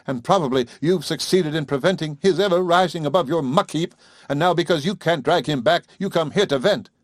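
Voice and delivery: furious outburst. Acted. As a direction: hurl it at the old man in fury. Carol furious at the father.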